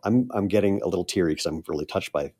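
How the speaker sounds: quietly choked up, touched; real emotion breaking through softly; a little emotional. Real, not acted. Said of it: "I'm gonna get a little emotional here".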